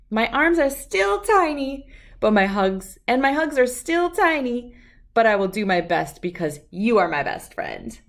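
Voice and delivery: lively storybook read-aloud with voices; reading to children. A narrator's reading. Reader sharing a picture book with children, lively storytelling. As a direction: read it like to a room of kids.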